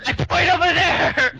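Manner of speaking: high, loud, drawn-out shout; loud high-pitched hail; calling out. Acted. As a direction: holler it slowly across a distance. Player calling out in character.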